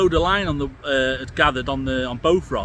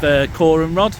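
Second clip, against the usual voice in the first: shouting over wind. Real, not acted. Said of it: "Hopefully you can hear me over the wind".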